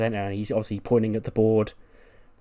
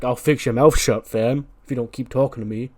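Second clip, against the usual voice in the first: louder mock threat, easing off; aggressive tone; 6 dB louder than usual. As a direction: snap back at an unwanted counsellor. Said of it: "quite an aggressive tone".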